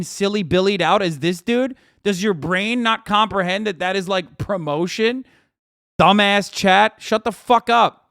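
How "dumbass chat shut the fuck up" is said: angry scolding. Real, not acted. Streamer scolds his chat.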